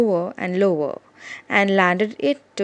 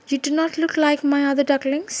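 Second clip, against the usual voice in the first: mother duck; 7 semitones higher, faster than usual. Acted. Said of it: "said mother".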